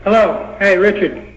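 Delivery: thin voice no bass, speakerphone sound; talking over a tinny speakerphone. Real, not acted. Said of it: "you sounds like you're on a speakerphone".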